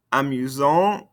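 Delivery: "Amusant" rising on an open nasal vowel; no T at the end of "Amusant"; silent ending consonants. Shown as a demonstration. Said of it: "Don't pronounce those ending consonants".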